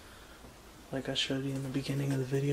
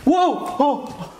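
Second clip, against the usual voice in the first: sudden loud high yelp of fright; startled cry; 11 semitones higher, 15 dB louder than usual. Real, not acted. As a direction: jump at a noise and cry out. Startled by a noise.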